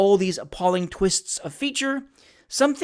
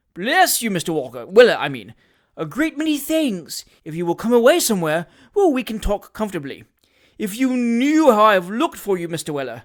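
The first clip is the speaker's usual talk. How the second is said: fawning hypocrite; 3 semitones higher, 4 dB louder than usual. Acted. Job Trotter gushes false feeling to Sam, fawning voice. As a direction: overdo the heartfelt emotion.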